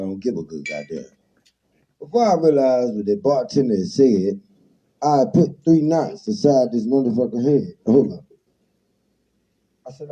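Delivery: rhythmic barroom toast, told in rhyme; toast recitation. Acted. Host reciting rude rhyming poetry to his guest, performed as a toast. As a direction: recite it like an old street toast. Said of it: "That shit house poetry".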